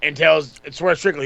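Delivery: ordinary talk, nothing marked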